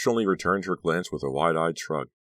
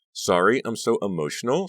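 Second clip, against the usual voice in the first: higher, mildly overwhelmed apology; emotional gushing; 6 semitones higher, 4 dB louder than usual. A narrator's reading. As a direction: apologize while brimming with feeling. Honey wipes tears, overwhelmed.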